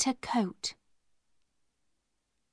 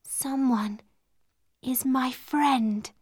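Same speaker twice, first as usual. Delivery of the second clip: said slowly; slower than usual. Acted. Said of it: "she said slowly".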